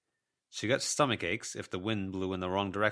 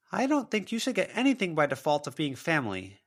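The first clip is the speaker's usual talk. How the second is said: higher and louder, firm refusal; defiant young woman; 10 semitones higher, 6 dB louder than usual. A narrator's reading. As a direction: stand your ground against her. Verona defies ghost.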